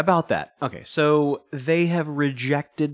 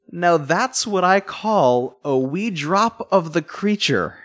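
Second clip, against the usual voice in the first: hammed-up Irish lilt, slow, laughing through it; a bad stab at an Irish drunk; terrible Irish accent; 4 semitones higher, slower than usual. Fan retelling a drunk Star Trek line in a terrible Irish accent. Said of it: "that was a terrible Irish accent".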